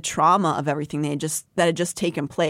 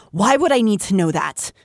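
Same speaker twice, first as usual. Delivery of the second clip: snapped; 3 semitones higher, 4 dB louder than usual. Acted. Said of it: "The words snapped out of her".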